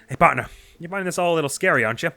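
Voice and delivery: high, upbeat bird reporter; chirpy newsman eager for a scoop; cheerful reporter voice. Acted. Voices Penn dialogue.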